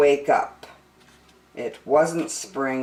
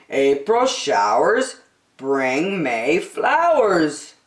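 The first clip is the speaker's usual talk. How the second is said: reassuring father; slower than usual. Acted. Father comforting Franklin, slow and reassuring. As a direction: soothe a worried son.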